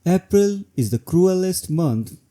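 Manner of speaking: "cruelest" clearly leaned on within the line; stress on cruelest. Shown as a demonstration. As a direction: give "cruelest" the extra weight that breaks the rhythm. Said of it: "Here, the stress on cruelest".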